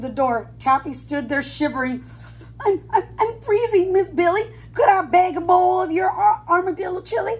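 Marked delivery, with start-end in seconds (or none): 2.6-7.3 higher, stammering, teeth-chattering voice; chattering with cold. Acted. Taffy freezing at the door, chattering as she begs. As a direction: shiver the words out, begging. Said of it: "she chattered".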